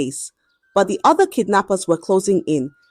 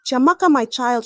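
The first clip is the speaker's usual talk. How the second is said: trembling with emotion; 6 semitones higher than usual. A narrator's reading. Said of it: "her voice trembling with emotion".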